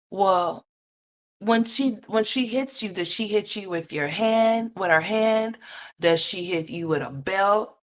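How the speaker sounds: high, sweet questioning voice; mock caseworker. Caseworker gently questioning the little boy, high and sweet. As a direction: play a gentle social worker quizzing a child.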